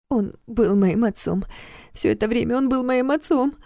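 numb, disbelieving. Acted. Girl grieves her father's deception.

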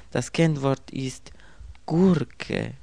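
whispered password; conspiratorial whisper of the code word; secret whisper. A narrator's reading.

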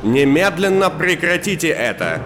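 sharp commanding shout; stern official calling out to hall; громкий голос. Acted. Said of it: "раздался громкий голос". (громкий властный окрик)

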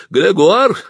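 high, drawn-out indignant cry; loud, high-pitched old lady's complaint; old woman crying out. A narrator's reading. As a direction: call out in outrage as an old woman. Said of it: "крикнула старуха".

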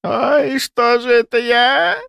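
put-on high, slow lament of an old woman; wailing old woman. A narrator's reading. Old woman bewailing giving away her son, high slow wail. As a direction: wail at her own mistake. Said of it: "заревела она".

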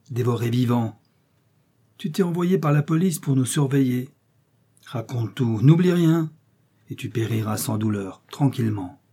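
threatening captain. Acted. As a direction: squeeze a confession out. Bork threatens.

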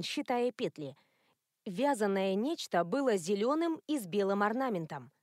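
ordinary delivery

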